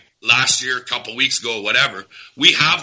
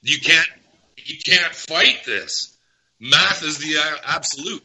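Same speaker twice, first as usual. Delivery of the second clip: real frustration, higher and drawn out; worked-up, higher-pitched protest; mad; 4 semitones higher than usual. Real, not acted. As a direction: insist in exasperation, stretching the words. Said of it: "but man, am I mad".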